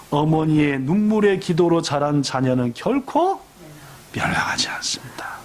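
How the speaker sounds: pastor reassures the weeping mother Monica; solemn reassurance. Acted. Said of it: "유명한 말입니다".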